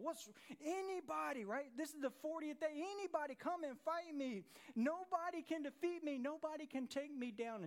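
mock giant yelling across the valley; Goliath taunt. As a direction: call out the challenge like a bragging giant.

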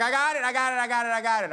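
lightly voiced confident God; a hint of easy assurance, repeated; calm reassurance. God answers the worried builders, lightly reassuring. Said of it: "God's like".

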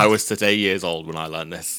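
flat stunned repeat. Shown as a demonstration. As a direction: say it again in a hushed daze. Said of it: "repeated deadpan".

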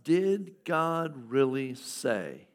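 very slow, drawn-out tempter voice; slow, insinuating serpent; serpent's question. Acted. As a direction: let the serpent linger on every word. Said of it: "a serpent comes to Eve and says".

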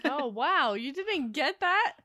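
loud, teasing disbelief; mock indignant. Real, not acted. Wife mock-indignant at husband.

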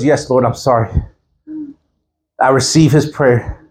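low, subdued contrition; retold tearful apology. Woman repenting to God in her car, low and subdued. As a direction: imitate a humbled apology, dropping the pitch. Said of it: "she started to cry in the car".

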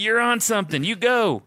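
high, bright encouraging cheer; cheery Jesus voice. Retold or imitated. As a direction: cheer him on like a proud coach. Imagined Jesus cheering on bad talk.

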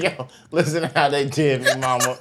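laughing through a mock plea; quoting himself while cracking up. Retold call to his mama.

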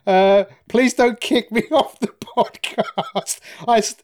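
high, slow pleading whine through laughter; mock grovelling. Begging the host not to be kicked off, mock pleading whine. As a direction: beg like a sacked intern, hammed up.

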